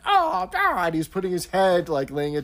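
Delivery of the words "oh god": despairing groan. Retold or imitated. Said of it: "Mister Lucas as Punch is reacting".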